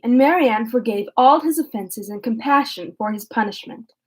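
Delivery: steady, measured reading of a classic novel; calm audiobook-style narration; story narration. A narrator's reading. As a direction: read it out evenly for listeners. Reads the novel aloud.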